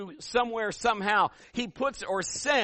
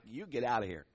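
mock dismissal; 6 semitones lower, 5 dB quieter than usual. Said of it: "she's like".

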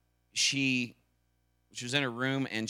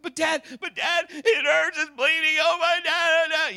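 put-on much higher, louder frightened child crying for dad; panicked little girl; 8 dB louder than usual. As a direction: play the hurt daughter pleading. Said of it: "And she's just like".

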